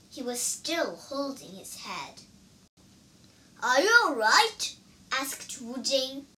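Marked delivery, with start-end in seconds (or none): 3.6-4.7 concerned question. A narrator's reading. Companion checks on hurt monkey.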